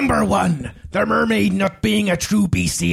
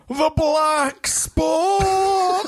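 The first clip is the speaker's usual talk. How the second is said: put-on old sailor; 8 semitones higher, much slower than usual. Drawn-out pirate reading.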